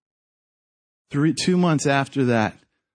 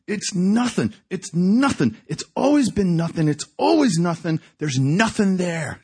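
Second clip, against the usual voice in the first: mildly raised, insistent protest; despairing insistence; 4 semitones higher than usual. Retold or imitated. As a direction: act out a man hopelessly insisting. Despairing prisoner's insistence acted out.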